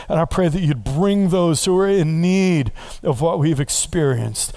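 rising, fervent pastor's prayer; preacher praying aloud over his people; congregational prayer. Acted. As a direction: lift the prayer over the room.

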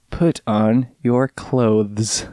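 slow, heavy "clothes" with a hard th; imitating a friend's voice. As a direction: drag it out and overpronounce "clothes". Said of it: "Rhett way of saying things".

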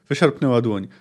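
reading a novel aloud, steady and measured; story narration. A narrator's reading. Reviewer reading the market scene to viewers, narrating. Reads the book passage aloud.

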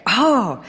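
drawn-out "oh" of dismay. Retold or imitated. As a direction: let out a daunted oh. Acts out dismay at forms.

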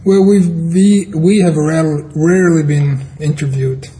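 numb mouth from the dentist. Real, not acted. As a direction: speak with half the face numb. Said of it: "I also wanna apologize for my mouth".

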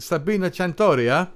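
attempted Italian accent on the name; lightly put-on Italian accent; vague Italian accent. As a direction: roll out the name in mock Italian. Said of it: "it's some kind of accent".

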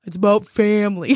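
deadpan action-hero line; lightly voiced movie tough guy; Vin Diesel impression. A podcast host doing Vin Diesel for her cohost, dead serious. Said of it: "that's Chelsea's Vin Diesel impression".

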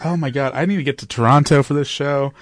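excited fangirl squeal; screaming crying fan. Real, not acted. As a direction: gush like a thrilled superfan. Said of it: "my fangirl voice is going on right now".

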